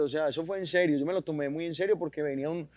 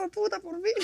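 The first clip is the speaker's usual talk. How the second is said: relief; 13 semitones higher than usual. Retold or imitated. Relief after nailing line.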